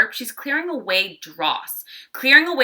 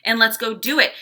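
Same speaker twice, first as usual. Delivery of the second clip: no-nonsense command. Retold or imitated. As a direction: snap them out of it and get to work. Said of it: "she's like".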